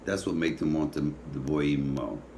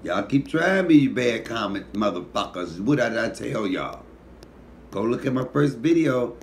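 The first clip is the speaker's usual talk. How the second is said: calling out commenters; 4 semitones higher, 4 dB louder than usual. Real, not acted. Scolding bad commenters.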